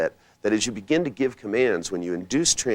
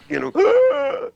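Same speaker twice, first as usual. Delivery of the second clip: real laugh breaking out, much higher and louder; high burst of laughter; 8 dB louder than usual. Real, not acted. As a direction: let a high laugh burst through the words. Laughing at his own demo.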